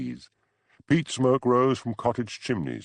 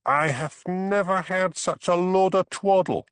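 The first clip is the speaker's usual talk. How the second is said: scornful scoffing; 10 semitones higher, 3 dB louder than usual. Acted. Archie scoffing at press nonsense.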